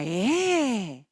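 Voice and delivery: drawn-out, swooping incredulous question; mock astonishment. Doctor hears of the belly pain, exaggerated surprise. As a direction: stretch it into a loud, alarmed query. Acts doctor's startled reaction.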